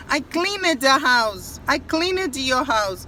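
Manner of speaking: CLEANED slowly broken into "clee-ned"; common learner mistake. Shown as a demonstration. Teacher imitating students' error in a sentence, cleaned as two syllables. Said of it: "Muita gente fala".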